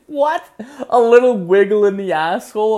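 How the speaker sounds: high, loud disbelieving squawk; incredulous. Retold or imitated. Son reacting to mom's euphemism, incredulous. Son's incredulous reply, retold.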